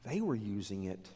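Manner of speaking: softly whispered reverence; hushed aside. Real, not acted. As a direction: drop to a hush for weight.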